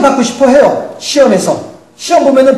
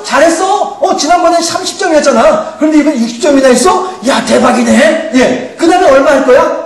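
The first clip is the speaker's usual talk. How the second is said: high, bright cheering on; pep up a struggling child, step by step; cheering encouragement; 4 semitones higher than usual. Retold or imitated. God cheering on believers like a coach, high and upbeat.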